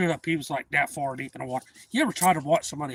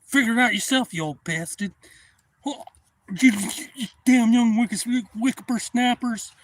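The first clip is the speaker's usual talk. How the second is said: put-on high, loud old-man rant, slowing at the end; cranky old man; 9 semitones higher, 8 dB louder than usual. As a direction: scold them like a furious grandpa. Old man cursing the young boaters.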